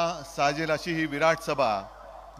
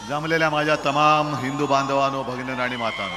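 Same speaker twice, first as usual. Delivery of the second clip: rally speech; 4 semitones lower than usual. Real, not acted. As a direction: hail the crowd. Opening address to a rally.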